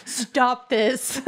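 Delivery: loud, exasperated hush; shushing. Acted. Malika shushing a tactless companion, exasperated and loud. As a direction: shut it down firmly. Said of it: "like, shushing".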